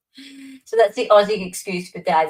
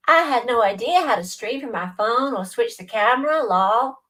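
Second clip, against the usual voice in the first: a tentative American accent, a bit higher; American accent attempt; 4 semitones higher than usual. Shown as a demonstration. Showing a viewer a light attempt at an American accent. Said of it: "if I go like this".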